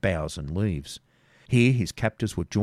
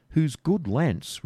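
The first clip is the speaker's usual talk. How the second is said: higher, slow probing; probing robber; 7 semitones higher, much slower than usual. Acted. Robber interrogates Garth about his master, higher. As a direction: press him for answers.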